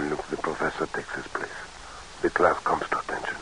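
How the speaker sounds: whispered aside among students; hushed whisper. Acted. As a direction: whisper it in a lecture hall. Hushed remark in lecture hall.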